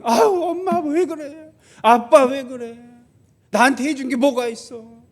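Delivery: put-on whiny child. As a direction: play a bratty kid whining at mom and dad, half laughing. Mock whining child to parents.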